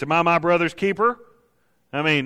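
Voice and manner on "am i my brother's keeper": lightly acted arrogant retort; arrogance. Preacher mimics Cain's answer to God, mildly arrogant. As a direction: throw the question back with a touch of cockiness. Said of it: "would be that arrogance".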